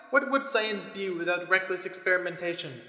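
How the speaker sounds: mad scientist. Acted. Scientist's grandiose proclamation.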